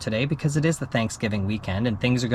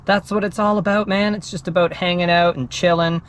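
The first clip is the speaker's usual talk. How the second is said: laid-back dude voice; 5 semitones higher, 3 dB louder than usual. Retold or imitated. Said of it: "you're thinking".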